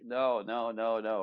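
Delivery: loud acted string of denials; insistent denial. Man denying what she took personally, loud insistent protest. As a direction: push back loudly, as if misunderstood.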